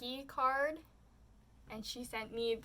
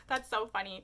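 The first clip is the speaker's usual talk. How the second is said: louder, amused, on a laugh; laughing at myself; 5 dB louder than usual. Retold or imitated. Trader amused by her own joke, laughing at herself. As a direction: retell it tickled by your own joke. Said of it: "laughing at myself".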